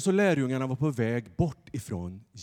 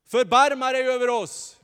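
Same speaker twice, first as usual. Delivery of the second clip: shouting beggar; 14 semitones higher, 9 dB louder than usual. Acted. Blind beggar shouting to Jesus, loud and high. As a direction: cry out to Jesus from the roadside. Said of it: "de skrek de också".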